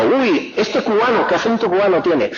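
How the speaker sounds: lightly put-on amazement; mock surprise. Madrileño remarking on a Cuban's accent, mock surprised. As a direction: exclaim as if struck by someone's accent.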